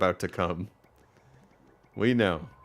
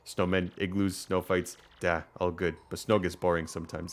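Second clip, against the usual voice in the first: put-on understated Russian-accented villager; lightly attempted Russian accent, matter-of-fact; bored villager in loose mock-Russian; rough Russian accent; 2 semitones lower, 4 dB quieter than usual. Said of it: "I can't do a Russian accent".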